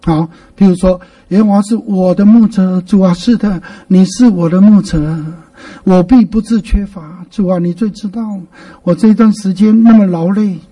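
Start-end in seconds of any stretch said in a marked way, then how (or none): 1.3-10.6 verse turned into intimate prayer; measured, sincere praying; personal prayer reading. Shown as a demonstration. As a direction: talk the verse over with God. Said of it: "把你自己跟目前的情境融化进".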